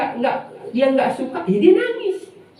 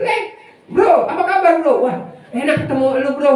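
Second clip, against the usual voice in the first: higher, fast, laughing bro greeting; mock buddy greeting; 3 semitones higher than usual. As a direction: greet a pal in a quick, high, chummy voice.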